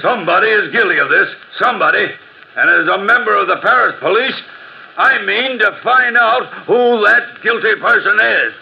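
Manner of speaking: high, emphatic declaration; solemn vow. Acted. Policeman vows to find killer.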